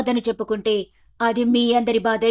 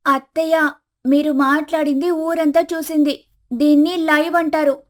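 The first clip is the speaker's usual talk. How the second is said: put-on higher young woman's voice, patient; daughter-in-law explaining live video to mother-in-law, higher voice; Komali explaining; 5 semitones higher than usual. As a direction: spell it out gently but pitched up.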